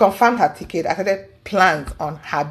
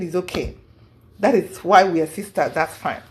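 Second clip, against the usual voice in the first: soothing reassurance; 3 semitones lower, 3 dB quieter than usual. Retold or imitated. Comforting her crying friend.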